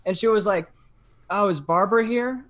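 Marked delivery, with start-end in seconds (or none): 1.3-2.4 lightly imitated strange woman, pitched higher; a hint of an eerie, sunken voice. Imitating the woman at his door, sunken and strange. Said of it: "In, like, a very sunken, strange voice".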